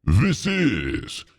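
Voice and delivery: slow, low eerie whisper; spooky whisper. Pretend. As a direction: whisper the title like a ghost story. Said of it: "my spooky voice".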